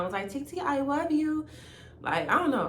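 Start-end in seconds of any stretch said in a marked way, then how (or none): 0.3-1.5 put-on high, slow child voice; sweet little-boy voice; imitating the nephew. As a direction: say it like a small kid calling his aunt. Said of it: "my nephew just called me".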